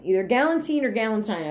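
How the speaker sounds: put-on first galantine ends "teen", second galantine ends "tine"; both pronunciations. Shown as a demonstration. Vlogger weighing two ways to say galantine, "teen" then "tine". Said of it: "I don't know how to pronounce it".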